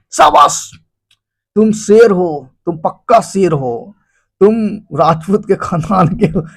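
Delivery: mock heroic flattery; hyped-up praise. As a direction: pump your friend up. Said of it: "आपको शाबाशी देगा".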